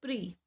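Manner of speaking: प्री, one syllable ending in "ee"; प्री sound. Shown as a demonstration. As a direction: say प्री with a long "ee". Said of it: "इसको क्या बोलेंगे हम?". (लंबी ई के साथ "प्री")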